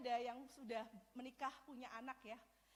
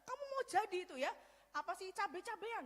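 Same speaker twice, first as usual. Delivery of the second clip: loud, fast, higher scolding; angry parents; 5 semitones higher, 5 dB louder than usual. Retold or imitated. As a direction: tear into the daughter like furious parents. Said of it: "mama papanya ngamuk banget".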